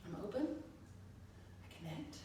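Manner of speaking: soft, low, drawn-out mantra; murmured inward affirmation; quiet mantra. Retold or imitated. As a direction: recite it softly, as if to yourself. Recites mantra to herself.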